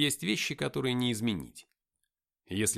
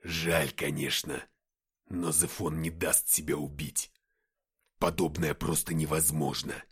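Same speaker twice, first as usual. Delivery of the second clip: downcast; 6 semitones lower, 3 dB louder than usual. A narrator's reading. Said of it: "Деймос на глазах сник".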